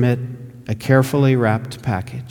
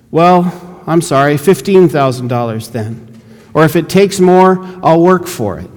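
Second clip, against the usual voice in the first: a hint of an eager missionary, raised; lightly voiced missionary begging to buy; 4 semitones higher, 5 dB louder than usual. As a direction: press the offer eagerly, a little higher and louder. Missionary raises his offer.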